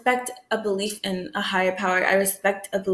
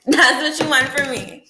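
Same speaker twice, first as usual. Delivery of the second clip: laughing disbelief; 3 semitones higher, 3 dB louder than usual. Real, not acted. Laughs through the repeated challenge.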